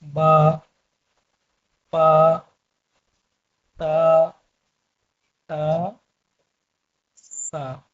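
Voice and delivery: teacher sounding out Urdu letters; letter names. Shown as a demonstration. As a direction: recite each letter name with a pause. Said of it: "इसे क्या बोलते हैं?".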